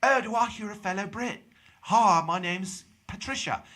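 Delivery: high, hammed-up fake British accent; bad British accent. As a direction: put on a gushing, phony British woman's voice. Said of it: "so he had a British accent".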